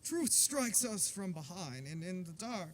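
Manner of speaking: put-on slow, grand mid-Atlantic accent. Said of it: "talking in a mid-Atlantic accent".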